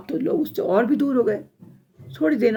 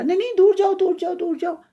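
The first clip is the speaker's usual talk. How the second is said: loud, high, repeated cries; alarmed shooing; 9 semitones higher, 6 dB louder than usual. Acted. Tree drives away animals eating its leaves, alarmed shouting. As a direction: shout them away in a panic.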